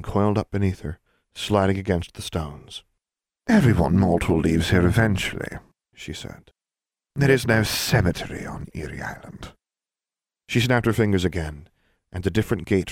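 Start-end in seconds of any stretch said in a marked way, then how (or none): 3.5-9.5 sly serpentine jailer, unhurried; menacing snake woman. Acted. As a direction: purr it like a coiled snake. Voices snake-woman jailer Edna.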